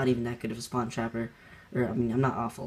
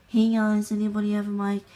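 calling out to lobby; 9 semitones higher, 6 dB louder than usual. Retold or imitated. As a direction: call out to the whole lobby, pitched up. Calls out on joining lobby.

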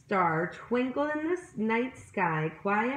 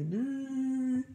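bee buzz; 4 semitones higher than usual. A narrator's reading. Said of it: "buzz like the bees".

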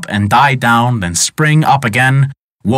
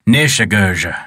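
lower, a touch of a snarl; mild snarl; 4 semitones lower than usual. Acted. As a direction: growl the name, understated. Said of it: "snarled the wicked wizard".

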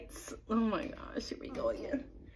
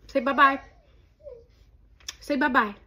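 coaxing; 4 semitones higher, 4 dB louder than usual. Real, not acted. Coaxing baby to wave.

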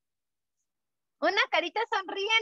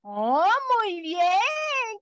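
slow, stretched-out oh of amazement; drawn-out wonder; mock astonished; much slower than usual. Shown as a demonstration. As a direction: act amazed for toddlers. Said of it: "una carita asombrada".

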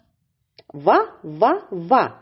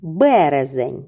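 slow model word; 3 semitones lower than usual. Shown as a demonstration. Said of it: "чи правильно я склала схему".

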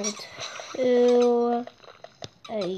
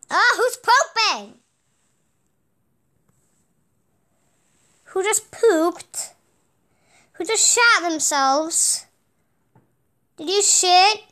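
high mock baby talk; 5 semitones higher, 3 dB louder than usual. Mock scolding the baby over pooping.

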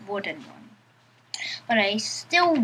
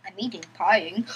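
giggling through the words; quick, giggly repeat; laughing, playful; 3 semitones lower, faster than usual. Shown as a demonstration.

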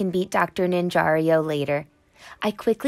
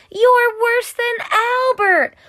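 Parker yelling; 10 semitones higher, 6 dB louder than usual. A narrator's reading. Parker yells at Maddie after her mistake, loud jeering. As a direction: yell it at her like a bully. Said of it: "Parker yells at Maddie".

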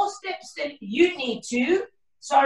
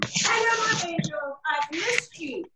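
croaky voice; 2 semitones higher, 3 dB quieter than usual. Real, not acted. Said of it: "I still sound a bit like a croaky frog".

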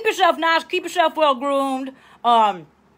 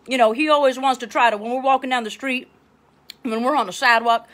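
ordinary talk, nothing marked

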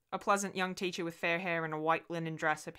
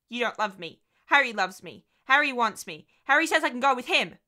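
put-on higher, louder cold child's voice; a small girl turning cold on her mother; defiant little girl; 6 semitones higher, 9 dB louder than usual. A narrator's reading. Adopted girl defies her mother, high, loud, cold.

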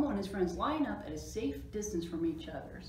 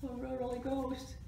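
higher, mock-frightened dismay; alarmed; 6 semitones higher, much slower than usual. A narrator's reading. Friends believing they met a ghost, alarmed. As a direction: gasp out playful horror.

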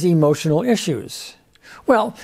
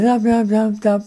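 calm little "nom" noises, pitched higher; lightly voiced child, unhurried and higher; calm child imitation; 5 semitones higher than usual. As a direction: imitate a small boy calmly asking for food. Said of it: "it's in a very calm voice".

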